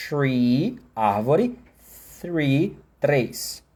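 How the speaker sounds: "Tree" with plain T, "three" with tongue between teeth; tree versus three. Shown as a demonstration. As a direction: contrast "Tree" and "three" clearly. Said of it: "Tem tree, que é árvore, e tem three".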